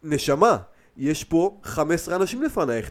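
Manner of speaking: sharp retort. Retold or imitated. Worker snapping at a pushy customer, firm slow retort. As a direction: put her in her place, slowly. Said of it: "דפקתי לה כזה".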